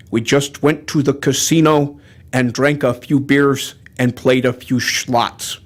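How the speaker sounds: low, measured Native American accent; solemn caricatured Native American storyteller accent; mock Native American accent. Shown as a demonstration. Storyteller recounting the buffalo hunt, low Native American accent. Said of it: "should I try some Native American?".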